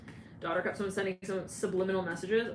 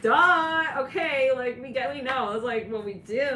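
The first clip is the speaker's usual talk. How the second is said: mock duh; 5 semitones higher, 7 dB louder than usual. Voicing Pisces bragging.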